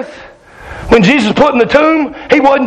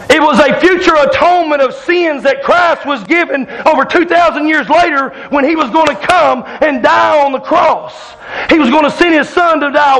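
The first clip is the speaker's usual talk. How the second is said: fiery preaching; 2 semitones higher than usual. Acted. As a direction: bring it home from the pulpit. Preaching at full force.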